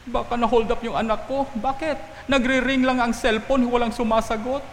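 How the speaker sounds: high-pitched fretting, lightly acted; worried mother. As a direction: voice a mother anxious about a missing child. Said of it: "talagang worried na worried na yung nanay".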